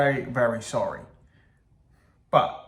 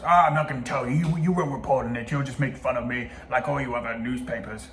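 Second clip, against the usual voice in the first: lightly posh mock accent; a hint of accidental posh accent; botched posh accent; 2 semitones lower than usual. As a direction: attempt a posh accent, barely holding it. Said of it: "it's gone really posh".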